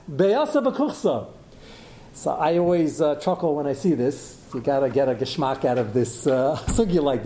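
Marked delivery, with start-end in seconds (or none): 0.1-1.3 B'yosef b'kuchsa said slowly, each word weighted; slow emphatic reveal. Shown as a demonstration. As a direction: stretch out B'yosef b'kuchsa deliberately. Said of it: "And what's that?".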